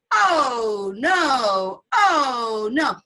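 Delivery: a grumbling grandmother's mock moan; complaining. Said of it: "the mother and the grandmother".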